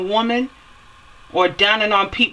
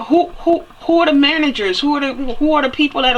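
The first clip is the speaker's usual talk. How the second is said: indignant demand; 5 semitones higher than usual. Real, not acted. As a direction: demand an answer, heated. Demanding who is responsible.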